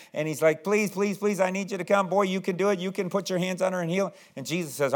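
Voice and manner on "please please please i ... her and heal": higher-pitched, repetitive pleading; insistent begging. Acted. Jairus urging Jesus to come heal her, begging. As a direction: keep pleading without a break. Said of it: "saying it over and over again".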